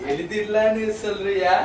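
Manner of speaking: drawn out. Shown as a demonstration. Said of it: "எழுதலான்னு சொல்றியா".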